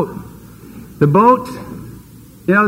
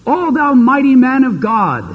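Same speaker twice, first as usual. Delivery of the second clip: proclaiming angel; 5 semitones higher than usual. Acted. Angel hails Gideon.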